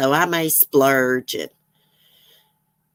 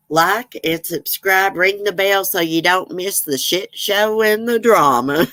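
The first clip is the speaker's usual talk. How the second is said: lightly imitated sassy-cat voiceover sign-off, slightly higher; Willow the cat; 4 semitones higher than usual. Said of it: "I love the endings that cat says".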